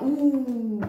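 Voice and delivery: long reacting "ooh"; drawn-out "ooh". Real, not acted. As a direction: let out a long, sustained ooh. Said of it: "excusez-moi pour les ouh".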